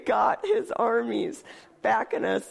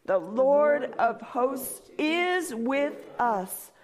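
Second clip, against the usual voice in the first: slow, reverent reading; solemn psalm refrain; much slower than usual. Acted. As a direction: read it slowly, stressing "is". Repeated refrain.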